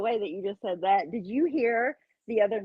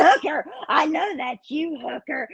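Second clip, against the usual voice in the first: mocking imitation; 6 semitones higher, slower than usual. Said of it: "She was like".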